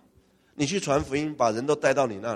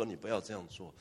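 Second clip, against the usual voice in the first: stern warning; 5 semitones lower, 16 dB quieter than usual. Acted. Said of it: "他们是很严肃跟他讲说".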